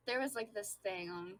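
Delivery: halting, stumbling speech; stuttering. Real, not acted. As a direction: trip over the words. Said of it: "sorry, I'm stuttering".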